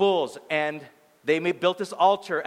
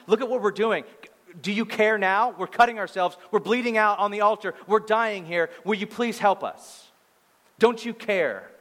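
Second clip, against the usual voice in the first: higher-pitched mock pleading; begging; 5 semitones higher than usual. Worshippers begging their god to care, pleading. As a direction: imitate desperate worshippers pressing for attention. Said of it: "They had to beg and put pressure".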